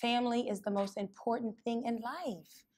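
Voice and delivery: soft, quiet and sincere; tender. Acted. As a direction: say it gently, holding his gaze. Holds his hand, looks in eyes.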